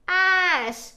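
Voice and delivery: "యాష్" stretched out, falling pitch; pronunciation demo. Shown as a demonstration. Teacher modelling the blended word, "యాష్" long and falling. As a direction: draw out the vowel in "యాష్".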